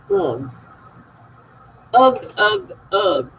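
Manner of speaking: short, falling "ugh" groans; repeated groan. Real, not acted. Groaning at a six A M alarm. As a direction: groan it out a few times, dropping each time.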